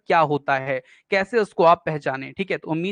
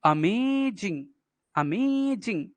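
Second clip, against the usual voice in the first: अमेजिंग with मे stretched long and raised in pitch; stress on मे; 4 dB quieter, much slower than usual. Shown as a demonstration. Teacher showing students the stressed syllable, stress on मे in अमेजिंग. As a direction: draw out the मे in अमेजिंग, slowly. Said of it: "यहाँ पे में हो गया, मतलब इस, अ, stressed हो गया".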